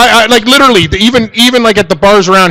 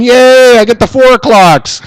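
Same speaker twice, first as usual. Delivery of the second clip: mock cheer; 5 semitones higher, slower than usual. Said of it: "you're in jail going".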